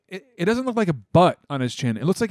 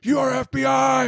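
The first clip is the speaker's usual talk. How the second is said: higher, mocking accuser voice; lightly hammed paranoid accusation; 8 semitones higher than usual. Friend mocks the gun guy accusing him, higher mocking voice. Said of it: "he's like".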